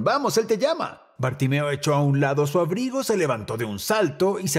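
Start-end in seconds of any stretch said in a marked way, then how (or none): 0.0-1.0 encouraging. Acted. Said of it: "le dijeron".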